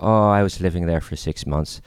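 light mock Irish accent; imitated Irish accent. Guy explaining his time in Ireland, light Irish accent. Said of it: "like, an Irish accent".

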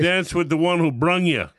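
put-on Chicago accent. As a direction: say "brung" like a Chicagoan. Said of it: "We have that saying in Chicago".

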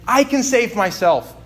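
hammed-up arrogant Naaman, slowing at the end; boastful Naaman. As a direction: crow like a proud general who can win anything. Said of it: "He's like".

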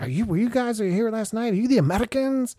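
high, loud imitation of the bar guys; a lightly voiced eager barfly demanding answers; mock German regulars. Bar regulars crowding in, imitated high and loud.

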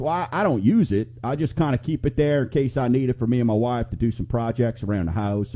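lightly put-on country accent; a touch of country talk in the retelling. Retelling a lumberyard customer's answer, light country accent. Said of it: "that's my country accent".

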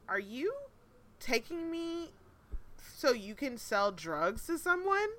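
incredulous questioning. Retold or imitated. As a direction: spell out the question piece by piece, stunned.

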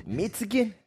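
high, soft mock German accent; tentative put-on German accent. Shown as a demonstration. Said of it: "You say it in an accent".

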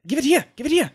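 high-pitched, urgent grabbing plea; impatient demand. Acted. Wilfred demands his necklace back, high and impatient. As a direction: squeak it out, desperate to have it.

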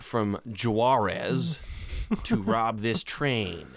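put-on very slow Spanish accent bandit. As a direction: stretch each word with a Spanish accent. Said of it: "that's my Spanish accent".

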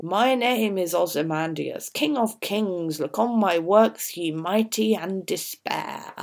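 lightly voiced proud king; a hint of a boastful king, slowing on "and despair"; Ozymandias's boast. Teacher reading the king's boast on his statue, lightly proud. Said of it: "We've got this dialogue in the middle".

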